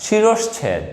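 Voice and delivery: শিরশ্ছেদ with sh before chh, shi-rosh-chhed; model pronunciation. Shown as a demonstration. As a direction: sound the sh in the middle of শিরশ্ছেদ. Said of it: "উচ্চারণটা হচ্ছে".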